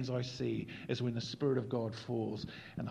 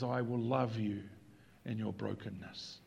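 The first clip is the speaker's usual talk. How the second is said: tender promise; 2 semitones lower, 4 dB quieter than usual. Acted. Jesus tenderly speaks in his anguish.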